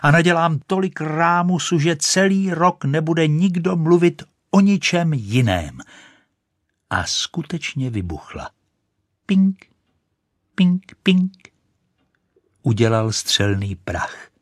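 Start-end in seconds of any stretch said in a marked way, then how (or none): 0.0-5.8 higher, louder grand boast; triumphant shouting. Acted. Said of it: "křičela". 9.2-11.3 high, loud ping noises; exploding rocket sounds; popping sound. A narrator's reading.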